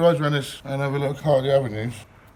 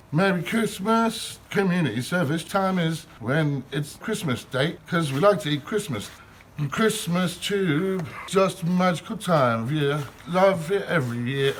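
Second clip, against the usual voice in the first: cheerful poem; 3 semitones higher than usual. Acted. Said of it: "All right then, cheerful Christmas poem".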